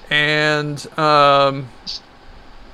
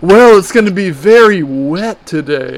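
put-on weather girl voice; 4 dB louder than usual. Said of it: "like the weather girl".

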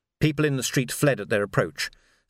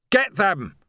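higher, loud battle yell; 7 semitones higher, 4 dB louder than usual. Acted. Vimes ordering the charge over the barricade, yelling. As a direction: launch the charge with it. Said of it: "Vimes yelled".

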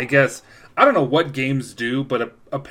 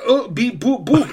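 high beeping robot noises; toy robot voice; 9 semitones higher, 3 dB louder than usual. Pretend. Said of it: "Hello, I am robot".

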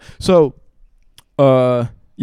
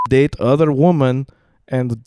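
imitated Russian-accented dad; retold in a Russian accent. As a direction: quote dad in halting Russian-accented English. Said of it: "in his Russian accent".

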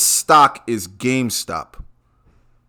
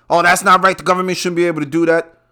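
mock whining; 5 semitones higher, faster than usual. Mocking upset stock traders.

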